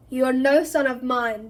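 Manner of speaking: loud furious disowning; bellowing rejection. Acted. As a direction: bellow it down at your son. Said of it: "bellowed Mister Crouch".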